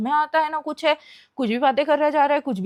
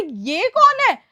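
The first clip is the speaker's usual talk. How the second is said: higher, drawn-out mock girl's voice; slow, raised girlish imitation; imitated girl's voice; 5 semitones higher, much slower than usual. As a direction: lightly put on an eerie girl's voice, stretching it out. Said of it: "लड़की की आवाज में बोल रहा है".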